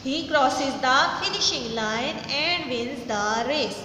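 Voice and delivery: very slow, every word spaced out for the class; slow dictation read. Shown as a demonstration. Teacher reading a sentence to students, very slow and deliberate. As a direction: read it slowly, word by word, so students can follow. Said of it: "teacher rereads the sentence".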